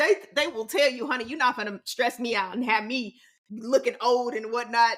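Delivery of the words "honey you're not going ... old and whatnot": ordinary delivery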